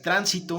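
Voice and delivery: tránsito with the first syllable stressed; stress on TRÁN. Shown as a demonstration. Teacher contrasting word meanings by stress, TRÁN stressed. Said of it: "aunque se escuche bien".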